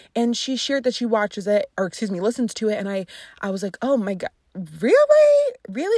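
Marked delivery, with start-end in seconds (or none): 3.8-6.0 playful, teasing, slow swooping surprise. Retelling own reaction to a friend's podcast habit: retelling a playful reaction. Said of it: "And I said it playfully".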